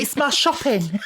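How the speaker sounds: high, slow, through laughter; laughing quote. Retold or imitated. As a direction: giggle out the quoted line. Quoting the lady with pram.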